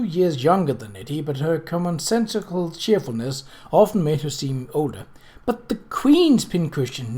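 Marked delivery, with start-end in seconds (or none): 5.4-7.2 slow, dismayed; aghast and pleading; stricken cry. Acted. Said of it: "Nettie cried, stricken".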